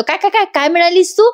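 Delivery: husband repeating himself in disbelief; mock disbelief. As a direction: repeat it like you can't believe your ears. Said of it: "तेव्हा जीवा म्हणतो".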